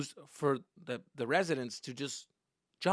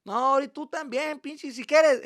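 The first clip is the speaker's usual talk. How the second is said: loud, high, slow warning; threatening; 12 semitones higher, 11 dB louder, slower than usual. Retold or imitated. Dad turning on his protesting son, threatening. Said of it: "And he would threaten me".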